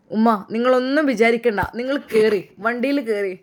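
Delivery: loud, urgent plea to get in; urgent call. Acted. Son urges his rescued mother into the car, loud and urgent. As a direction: hurry her into the car, raising the voice.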